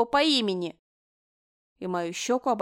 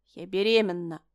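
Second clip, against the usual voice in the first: desperate shout; 3 dB louder than usual. Acted. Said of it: "выкрикнула тогда я в отчаянии".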